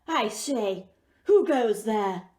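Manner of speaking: a prince challenging an intruder; lightly voiced indignant prince; startled prince. Prince woken by Gerda.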